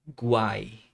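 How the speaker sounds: "guai" drawn out alone, all three vowels sounded; isolated syllable. Shown as a demonstration. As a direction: model "guai" slowly enough to hear U, A, I. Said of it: "Você consegue notar o som do U".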